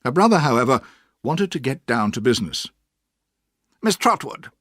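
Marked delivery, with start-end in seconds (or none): 3.8-4.5 mildly cross man's address; a hint of irritation; a little cross. A narrator's reading. Mister Murdstone addresses the aunt, mildly cross. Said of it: "he said a little crossly".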